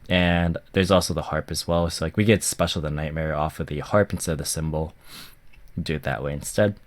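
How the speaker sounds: blocked nose from a cold; stuffy nose. Real, not acted. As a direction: speak through a stuffy, sick nose. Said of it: "my voice sounds a little bit stuffy".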